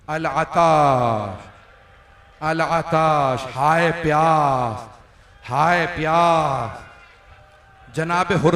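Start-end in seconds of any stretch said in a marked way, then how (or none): 0.1-6.8 slow, drawn-out wail of "हाय प्यास"; children's thirsty cries. Acted. Preacher voicing the thirsty children of the camp, slow mournful wail. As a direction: stretch each cry out slowly like a parched child.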